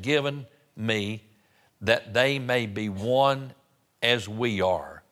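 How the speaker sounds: slow, drawn-out verse reading; scripture reading. Real, not acted. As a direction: read solemnly from the pulpit, pausing between phrases. Reads scripture aloud.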